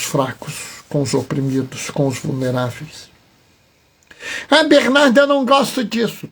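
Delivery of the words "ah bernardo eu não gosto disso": higher, louder complaint; protesting listener. Acted. An objecting listener complains to the preacher Bernardo, protesting.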